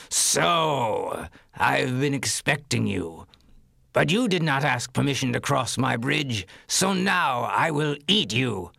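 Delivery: slow, menacing troll voice; slow theatrical villain menace. Acted. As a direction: savor the threat like a troll. Troll threatens middle goat.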